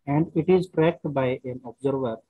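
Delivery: very slow, word by word, repeating phrases; slow dictation. Shown as a demonstration. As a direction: dictate slowly so students can write. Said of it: "question लिखिए पहले यहाँ पे".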